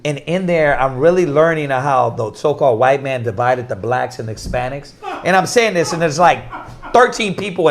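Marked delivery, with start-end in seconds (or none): 0.0-4.9 low, even explanation; calm, understated retelling; calm retold explanation. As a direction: explain it calmly, keeping the pitch down. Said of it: "I'm just calm as hell saying this".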